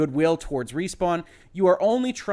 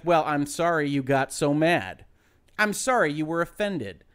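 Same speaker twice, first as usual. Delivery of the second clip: slow, grudging mock sorry; mock fake apology. A child forced by parents to apologize, grudging mock sorry. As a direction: mimic a forced apology to a sibling. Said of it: "evokes the kind of concept of the fake apology".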